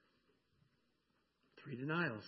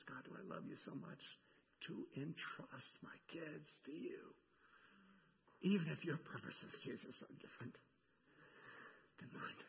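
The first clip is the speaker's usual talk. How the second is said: hushed prayer; 9 dB quieter than usual. Real, not acted. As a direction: let the prayer drop to a breath. Praying about his kids.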